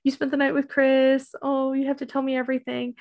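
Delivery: put-on lightly gushing girlfriend quote; mock excited freak-out. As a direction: imitate an excited friend wanting gossip. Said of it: "like, Suki freaking out".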